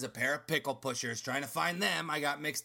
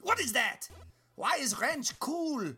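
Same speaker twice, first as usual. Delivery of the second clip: mysterious pickle matriarch; 10 semitones higher than usual. Acted. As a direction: savor the legend like a villain revealing her secret. Mirna confesses to the theft.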